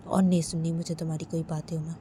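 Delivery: firm, fast dismissal in a lightly voiced husband; curt refusal. Sanjay tells Uma he won't listen, curt and fast. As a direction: say it flatly and quickly, no room for reply.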